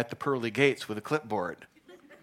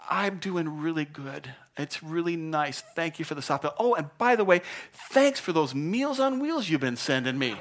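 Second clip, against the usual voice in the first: contented cat; 4 semitones higher than usual. Acted. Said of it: "and he says".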